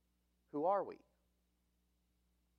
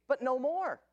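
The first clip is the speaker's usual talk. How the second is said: loud and high, driving "no more" home; ringing "no more" from the pulpit; emphatic preaching; 8 semitones higher, 7 dB louder than usual. Real, not acted. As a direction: declare it with full force. Preacher's climax.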